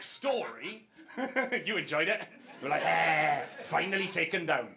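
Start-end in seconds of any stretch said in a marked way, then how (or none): 2.8-4.7 put-on Scottish accent. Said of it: "but in the Scottish accent".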